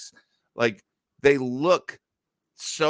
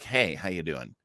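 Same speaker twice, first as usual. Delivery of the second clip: robot greeter voice; 4 semitones lower, 5 dB quieter, faster than usual. Retold or imitated. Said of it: "he'd be like".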